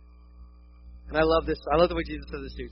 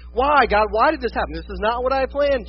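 raised, loud questioning of God; acted-out exasperated cry; imitated protest; 4 semitones higher, 6 dB louder than usual. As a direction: demand a reason, aggrieved. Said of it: "about the unexpected and going".

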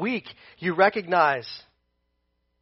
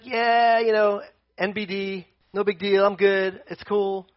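mock nonchalance; 4 semitones higher than usual. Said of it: "Paul's just like".

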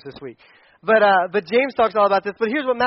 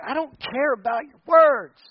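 higher, slow firm voice; God dismissing empty words; 5 semitones higher, slower than usual. Retold or imitated. Pastor voicing God rejecting empty promises, firm and higher. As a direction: brush off their words firmly. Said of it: "God's like".

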